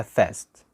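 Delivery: "fast" with a front "ae" vowel; "fast" without the long "ah"; regional British fast. Shown as a demonstration. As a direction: say "fast" as "faest", vowel as in "cat". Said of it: "في أماكن تانية في بريتن".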